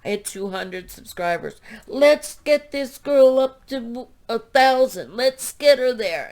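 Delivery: loud, rallying quote from a friend; excited loud cheer, retold. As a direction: call out like a friend rallying everyone. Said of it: "and she said".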